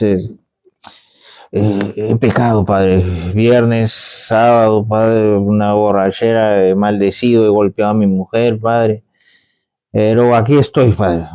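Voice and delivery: low, casual confession to the priest; a hint of a hungover sinner pleading; lightly voiced penitent.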